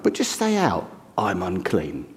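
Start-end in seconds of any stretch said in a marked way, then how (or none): 1.2-2.1 I'm unclean spoken softer and lower, not loud; said quietly. Shown as a demonstration. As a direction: model it gently for the congregation to repeat. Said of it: "You don't have to say it really loud".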